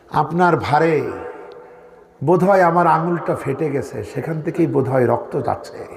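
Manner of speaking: gentle, unhurried quoted reply; very calm. Retold or imitated. Preacher voicing Ayesha answering the Prophet about the water, very calm. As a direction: voice her calmly, letting phrases settle. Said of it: "খুব শান্তভাবে বলছেন".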